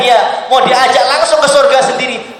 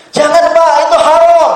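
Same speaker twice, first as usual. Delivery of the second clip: slightly higher pleading warning; voiced pious listener; 6 semitones higher, 3 dB louder than usual. Preacher voicing a worried congregant, mild plea.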